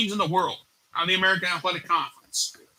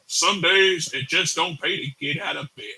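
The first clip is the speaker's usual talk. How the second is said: Kirk Ferentz impression; 2 semitones lower than usual. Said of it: "Kirk Ferentz just feels like saying".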